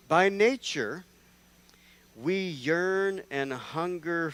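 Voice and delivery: dramatic reading. Acted. Reading Cicero slowly, dramatically.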